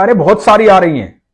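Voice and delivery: put-on cheerful boy answering; child's voice. A narrator's reading. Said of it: "तो बच्चे ने कहा".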